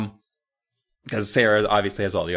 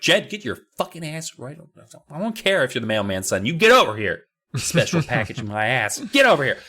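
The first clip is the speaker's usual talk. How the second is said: angry mom; 2 semitones higher, faster than usual. Retold or imitated. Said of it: "She's like".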